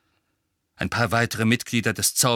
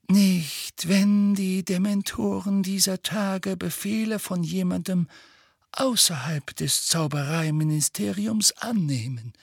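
calm; 9 semitones higher than usual. Acted. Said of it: "sagte Dumbledore ruhig".

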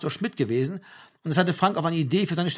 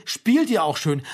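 an outraged, louder repeat of the quote; indignant; 3 semitones higher, 5 dB louder, slower than usual. Retold or imitated. Mother repeats the pastor's words in outrage. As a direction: throw the words back in disbelief. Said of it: "wiederholte sie".

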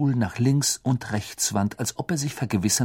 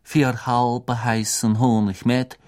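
barmaid voice; slower than usual. Acted. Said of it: "die Stimme einer Frau".

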